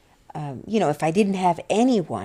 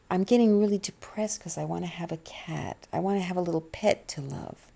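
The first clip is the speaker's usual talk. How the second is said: near tears, almost whispering; holding back crying, barely voiced; tearful whisper. Real, not acted. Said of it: "I'm about to cry now again".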